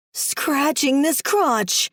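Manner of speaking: slow, drawn-out complaint; cried out. Acted. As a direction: stretch it out in misery. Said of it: "I cried with no relief".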